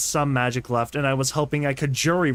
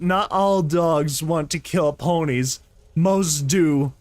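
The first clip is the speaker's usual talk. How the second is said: orc voice; slower than usual. Acted. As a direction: growl it like an orc. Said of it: "make him sound like an orc".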